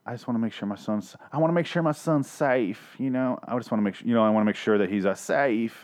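put-on on-and-off Southern accent; mock an actress slipping in and out of a Southern accent; patchy, halting Southern accent. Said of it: "Why are you using a Southern accent".

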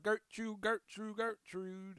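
high, sweet calling the cat; sing-song pet call. Retold or imitated. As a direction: coax the cat with a lilting call. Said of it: "normally I just go like".

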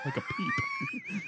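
tiny high squeaky peep, drawn out; chick peep. Pretend.

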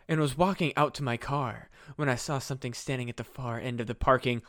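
mock-solemn witness narration; dramatic reading. Witness telling of something in the parking lot, dramatic reading. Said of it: "I'm gonna do a dramatic reading".

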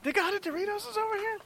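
high, disbelieving question; amazed. Real, not acted. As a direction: ask it in giddy disbelief. Incredulous about snacks.

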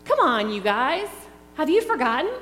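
cheering on the frightened troops; rousing cartoon rally. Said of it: "this is the line in VeggieTales that got me".

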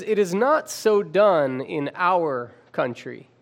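OUR set apart and stressed, slowly. Retold or imitated. Preacher voicing Laban's reply to Jacob, stress on OUR. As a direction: lean on the word OUR in a measured line. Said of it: "I imagine he emphasized the word".

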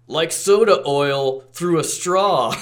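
hammy villain voice. Retold or imitated. Dirge quote, mocked.

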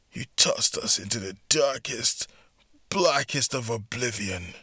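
bitter menacing whisper. Acted. Revenge speech over beaten enemy.

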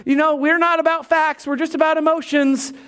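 hammed-up emotional gushing; mock emotional believer. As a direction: gush it like an all-feelings enthusiast. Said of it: "not just to be emotional, like".

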